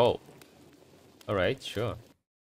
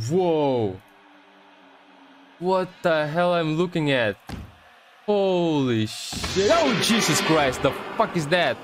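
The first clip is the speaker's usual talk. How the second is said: high, stretched-out cries of disbelief; horrified shock; 5 semitones higher, slower than usual. Real, not acted. Player seeing something awful on screen, horrified. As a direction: exclaim in rising horror, drawing words out. Horrified by what appears in game.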